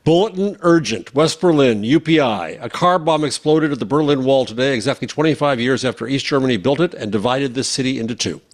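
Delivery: crisp wire-service news read; mock news bulletin. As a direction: announce it like an urgent news flash. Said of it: "So it was a mock news story".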